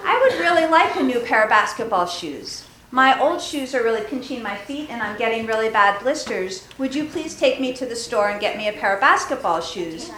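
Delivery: courteous, gentle asking; polite request. Pretend. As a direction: ask nicely and reasonably, like a respectful child. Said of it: "if you walked into your parents' room and said".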